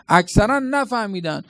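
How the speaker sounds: normal talking voice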